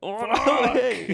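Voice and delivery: high, slow laughing disbelief. Retold or imitated. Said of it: "I'm like".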